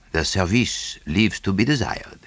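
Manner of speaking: dry, understated Poirot remark. A narrator's reading. Poirot remarking on the dust, dry. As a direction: say it dryly. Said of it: "he observed dryly".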